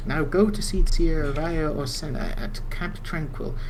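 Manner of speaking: lightly voiced formal elder; NPC quest giver. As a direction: read it like a stately quest giver. Reads NPC dialogue again.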